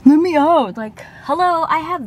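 high, loud mock demand; impatient snob imitation. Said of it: "and then he's like".

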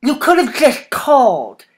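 sharp, acidic reproach; harsh. A narrator's reading. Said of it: "he said harshly".

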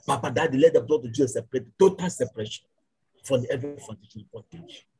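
rising, insistent prayer with pleading repeats; fervent prayer. Acted. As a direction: pray hard over the congregation, calling on God. Leads fervent congregational prayer.

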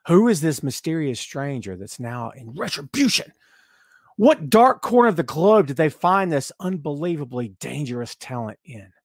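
hammed-up mystery narration, fading at the end; mock intrigue. Host acting out his thoughts on the mystery, mock intrigue. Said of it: "And I always thought".

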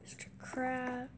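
slow hushed whisper. Real, not acted. Gamer sneaking past Mister Krabs' things, whispering. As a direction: whisper so the boss won't hear.

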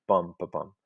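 long-short-short "Bum, ba, bum"; dactyl beat. Shown as a demonstration. Teacher showing students how a dactyl begins the line, rhythmic beat. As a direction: tap out "Bum, ba, bum" as a beat, first syllable held. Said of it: "is begun by a dactyl".

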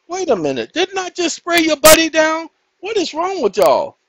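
playful loud scold at the dogs; mock scolding the dogs. Real, not acted. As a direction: scold the dogs, half laughing. Scolding dogs for more water.

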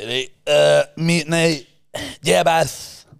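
mock a thick Scottish accent, mumbled; imitating the Scottish nurse's thick Scottish accent. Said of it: "most thick Scottish fucking accent".

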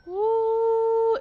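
high loud startled ooh; sudden high yelp of dismay; surprised ooh. Real, not acted. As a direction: blurt a shocked ooh. Reacting to something lost.

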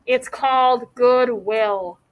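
slow, deliberate; slowly. Acted. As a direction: dwell on the term as she works it out. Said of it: "she said slowly".

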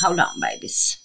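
whispered. Real, not acted. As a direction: breathe it gently to the paints. Talking softly to paint "babies.

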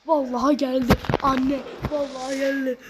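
can't believe the luck; real excited shouting; excited disbelief. Real, not acted. Disbelief at pack opening.

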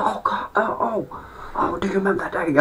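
high, put-on teasing voice; taunting mate.

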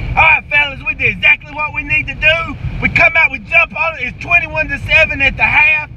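lightly voiced football coach firing up the team; halftime pep speech. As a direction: coach hyping up his players at halftime. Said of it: "Here it goes".

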